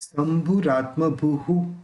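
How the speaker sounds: शंभुरात्मभूः ending with an echoing u; slow, with a final hu; the visarga in शंभुरात्मभूः as u. Shown as a demonstration. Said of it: "उसका उच्चारण उ होगा".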